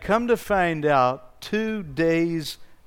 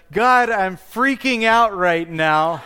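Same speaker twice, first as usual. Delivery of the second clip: retold panic; 4 semitones higher, 6 dB louder, slower than usual. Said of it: "and I just said".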